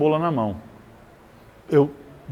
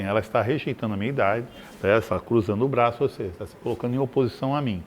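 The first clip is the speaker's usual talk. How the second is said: smug psychologist voice; 5 semitones lower, 5 dB quieter, faster than usual. Retold or imitated. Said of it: "o psicólogo metido a besta".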